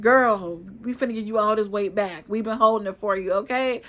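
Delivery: mock sassy friend bragging she saved the weight; sassy Rona taunt. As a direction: play Covid as a sassy friend gloating. Rona personified taunting the speaker.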